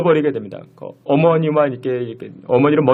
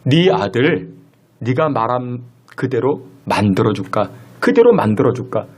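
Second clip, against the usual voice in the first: a lower, grave hint of a divine voice; lightly voiced God asking a sobering question; understated deep voice of God warning the mother; 5 semitones lower than usual. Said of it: "하나님의 음성인데".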